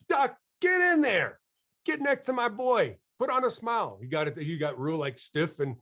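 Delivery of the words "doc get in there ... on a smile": retold urging. Speaker urging the dentist to pose with his son, raised coaxing call. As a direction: push the doctor into the photo, calling out.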